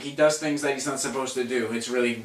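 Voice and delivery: ordinary talk, nothing marked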